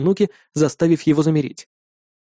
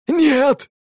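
cry out; 11 semitones higher than usual. A narrator's reading. Father shields his daughter from the warrior, cry. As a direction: cry out to stop him. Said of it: "крикнул он".

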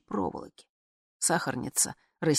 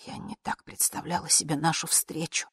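ordinary delivery, nothing marked

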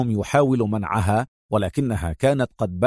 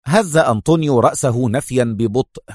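ordinary delivery

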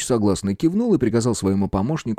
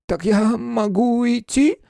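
высокий медленный неуверенный вопрос; переспроси робко, тонко; неуверенно; 3 dB louder, slower than usual. Acted. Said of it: "неуверенно переспросил он". (неуверенный фамильяр, медленно и высоко)

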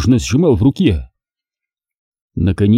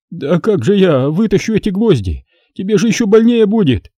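higher, anxious protest; fretting father; 9 semitones higher than usual. Acted. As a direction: worry about hurting her.

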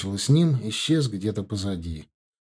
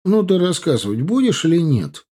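excited; 7 semitones higher, 6 dB louder than usual. Acted. Солдаты расспрашивают рассказчика.

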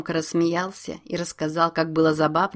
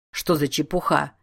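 amused, dismissive smirk. Acted. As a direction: brush it off with a smirk. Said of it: "ухмыльнулся Юханес".

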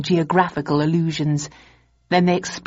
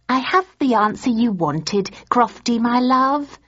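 higher, lighter wife's voice; Polly's voice; 6 semitones higher than usual. A narrator's reading. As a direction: read as the fond wife. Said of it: "she said".

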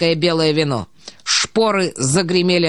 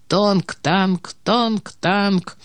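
imitated ringing in ears; much slower than usual. A narrator's reading.

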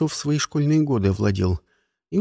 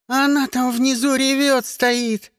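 put-on excited kid; 10 semitones higher, slower than usual. A narrator's reading. Child reports crying girl.

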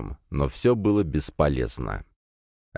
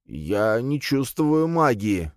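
slow, higher strained admission; forcing words out; 6 semitones higher, slower than usual. A narrator's reading. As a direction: squeeze it out haltingly. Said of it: "выдавил Санёк". (выдавленные, медленные слова, голос выше)

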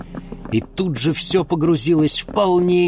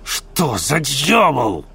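slow gruff bark; mild bearded man's growl; 3 semitones higher, much slower than usual. Acted. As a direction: bark the question. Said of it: "рявкнул бородач".

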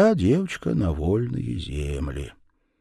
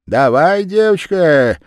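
голос Верявы; 6 semitones higher, 8 dB louder than usual. A narrator's reading. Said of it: "Верява говорит".

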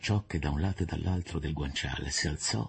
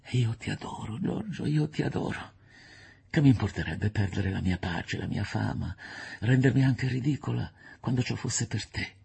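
emotional, slightly raised voice; a touch of fervent devotion; lightly voiced adoring lover; 5 semitones higher than usual. Woman embracing the man she adores, fervent. Fosca declares her love.

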